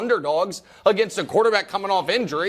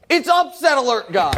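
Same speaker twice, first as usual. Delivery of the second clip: imitating a fan yelling from a car, higher and louder; retold shout; 6 semitones higher, 5 dB louder than usual. Fan shouting from car at the host, mock yell. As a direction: call it out across the street. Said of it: "somebody shouts from their car".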